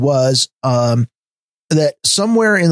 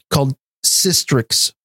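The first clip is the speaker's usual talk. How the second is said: talking around something in the mouth; slurred with a mouth full. Real, not acted. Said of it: "this is gonna sound terrible with this thing in my mouth".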